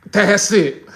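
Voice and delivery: hammed-up flirty brush-off; mock Southern flirt. Shown as a demonstration. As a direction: tease him like a coy Southern woman. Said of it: "That's how Southern women flirt".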